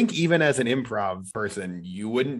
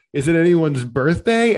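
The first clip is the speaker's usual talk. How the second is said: mock host call; 4 semitones higher, 5 dB louder than usual. Villain asking crowd.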